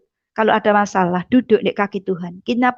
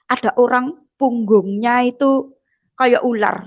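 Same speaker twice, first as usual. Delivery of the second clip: whisper. Real, not acted. Secret-like detail in testimony.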